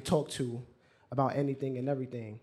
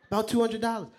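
"About two hundred dollars" echoed high and louder in disbelief; incredulous echo; 7 semitones higher, 4 dB louder, faster than usual. Retold or imitated. Grandfather echoing "About two hundred dollars" to the boy, incredulous. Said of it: "he was screaming".

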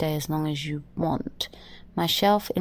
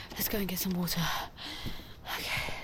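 whispered; 7 dB quieter, much faster than usual. Acted. Shaken after nightmare.

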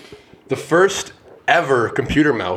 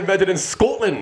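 high-pitched theatrical announcement; showy quiz reveal; 9 semitones higher than usual. Pretend. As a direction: finish the reveal with a flourish. Announces right answer in quiz.

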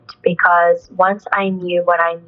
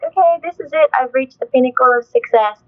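smug inner thought; 5 semitones higher than usual. Retold or imitated. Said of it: "thinking like".

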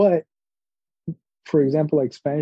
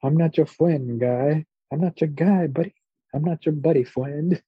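South Park quote; 3 semitones higher than usual. Retold or imitated. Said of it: "South Park".

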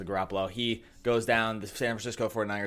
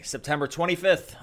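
hype voice; 7 semitones higher than usual. Acted. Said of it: "I like your hype voice".

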